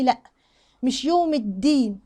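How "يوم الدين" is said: "يوم الدين" said as yoom id-deen; wrong rounded vowel. Shown as a demonstration. Teacher shows the mistaken verse ending, rounded vowel. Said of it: "غلط".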